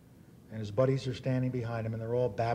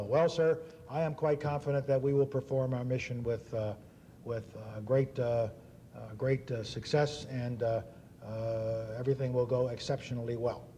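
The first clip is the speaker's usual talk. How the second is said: lightly voiced stiff officer hemming and hawing; mock a careful officer stumbling over uh's. Captain answering the reporter, lightly mocked stiff hedging. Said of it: "That's the way officers talk".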